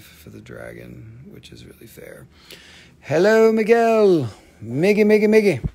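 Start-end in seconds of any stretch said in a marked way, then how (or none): 3.0-5.6 loud, high-pitched hail; calling out. Real, not acted. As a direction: belt out a playful greeting. Greets a viewer, calling out.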